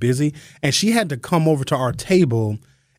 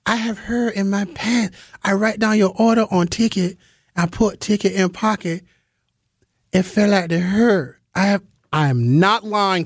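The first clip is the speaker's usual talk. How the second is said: put-on higher, accented broken English; imitated server accent; 6 semitones higher than usual. Comic mimics waitress explaining ticket fell out, accented. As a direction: insist like the apologetic waitress. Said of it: "I'm sorry ma'am I don't know".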